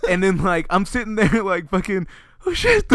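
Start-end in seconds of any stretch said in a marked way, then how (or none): 2.5-2.9 high-pitched retold alarm; comic oh-no squeal; mock panic. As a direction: act out getting caught.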